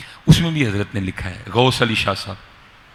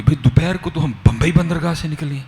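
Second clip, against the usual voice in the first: mildly acted bewilderment, pitched higher; a touch of higher-pitched alarm in retelling; retold worry; 5 semitones higher than usual. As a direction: voice the father's puzzled worry, lightly. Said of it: "والد صاحب بڑے پریشان ہوئے".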